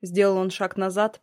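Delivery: ordinary delivery, nothing marked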